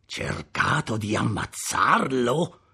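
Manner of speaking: slow, mocking echo; scornful. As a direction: sneer the question back. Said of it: "disse sprezzante".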